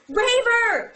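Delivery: high, loud theatrical yell. Retold or imitated. Attacker with a knife accusing Covenant, yelling. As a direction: hurl it out like an accusation. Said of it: "He yells".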